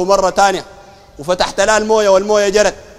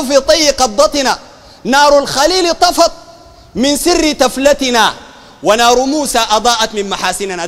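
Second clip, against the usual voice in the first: very slow, higher-pitched poetic recital; verse recitation; 3 semitones higher, slower than usual. Retold or imitated. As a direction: declaim each line with long, stretched syllables. Quoting Sufi verse to ridicule it.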